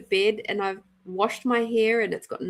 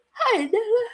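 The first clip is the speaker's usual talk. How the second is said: bright greeting; 11 semitones higher than usual. Real, not acted. Greeting a viewer.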